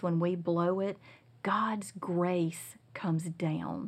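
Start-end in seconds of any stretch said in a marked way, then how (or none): 1.4-3.9 whisper. Real, not acted. Reverent point about grace.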